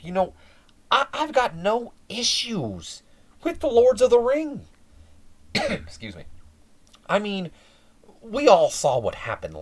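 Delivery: a hint of a slick manager talking down to Jimmy; Paul Heyman voice. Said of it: "the arrival of Mister Heyman".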